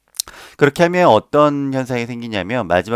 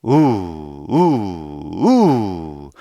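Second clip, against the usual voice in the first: short punched oo sounds; repeated oo pulses; diaphragm pulses; much slower than usual. Shown as a demonstration. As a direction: kick each oo from the belly. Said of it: "제 배가 좀 보이시나요?".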